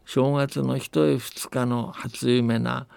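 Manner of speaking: put-on steady, unhurried old-tale narration with light dialect voices for the villagers; folktale storytelling. A narrator's reading. Telling the host a New Year folktale from Akita, calm storytelling voice. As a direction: tell it like a grandparent spinning an old story.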